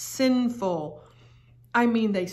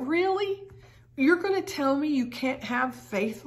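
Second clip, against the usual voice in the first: incredulous; 6 semitones higher than usual. Real, not acted. Mock disbelief at congregation.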